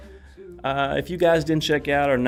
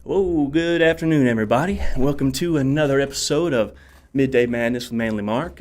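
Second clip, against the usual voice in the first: big show greeting; 3 semitones higher, 6 dB louder than usual. Real, not acted. Host greets audience on show open.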